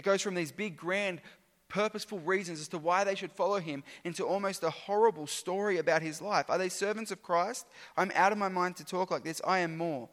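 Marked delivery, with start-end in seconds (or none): 6.5-10.1 louder, firm declaration of the claim; bold. Acted. Preacher voicing Paul's claim before his hardships, bold and louder. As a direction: say it outright, owning the boast. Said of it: "the tone of his boasting completely changes".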